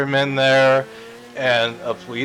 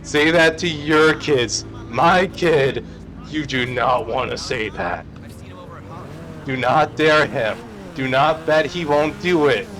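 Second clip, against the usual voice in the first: angry mom yelling; 3 semitones higher, slower than usual. Retold or imitated. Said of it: "she was yelling at these".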